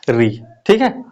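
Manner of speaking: whispered री, ठीक है; whispered aside. Real, not acted. Teacher whispers a quick check to class. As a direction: drop to a whisper for री.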